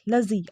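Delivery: "लजी" as short luh-zee; unstressed "लजी", vowel reduced; correct ending. Shown as a demonstration. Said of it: "लजी बोलना है ना कि लॉजी".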